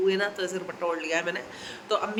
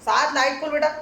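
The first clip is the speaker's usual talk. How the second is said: raised voice calling across the house; 6 semitones higher, 5 dB louder than usual. Real, not acted. Mother calling her son from the doorway, loud.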